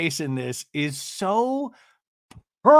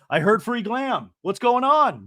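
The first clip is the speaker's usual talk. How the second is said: higher and louder, rushing in eagerly; eager mock housewife; 7 semitones higher, 4 dB louder than usual. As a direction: play a housewife who just heard about freebies.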